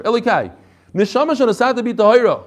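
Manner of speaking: Elokai, then a clear pause before Neshama; pause after Elokai. Shown as a demonstration. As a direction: stop on Elokai and let it sit. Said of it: "There's supposed to be a pause here".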